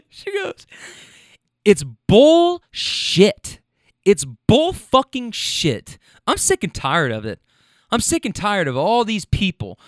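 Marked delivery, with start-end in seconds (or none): 1.6-9.8 slow, drawn-out mock rant, louder at first; the client going off about the business game, mock angry; retold rant. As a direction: ham up her rant with heavy emphasis. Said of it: "this is where she really starts to go off".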